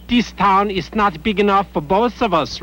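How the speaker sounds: lightly hammed-up tough-guy ultimatum; showdown routine. Journalist mocking the priest's threat to the innkeeper, hammed-up showdown.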